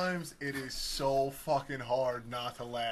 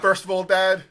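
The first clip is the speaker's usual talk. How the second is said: loud, higher-pitched smart-aleck correction; imitating a sassy kid; 6 semitones higher, 12 dB louder than usual. Son correcting dad about candy, mock sass. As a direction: announce it like a kid setting Dad straight. Repeats sassy son's line.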